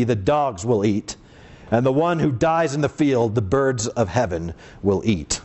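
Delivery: declamatory Bible reading with weighty pauses; emphatic pulpit reading of a judgment; solemn scripture reading. A narrator's reading. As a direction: read it out as a prophet's pronouncement.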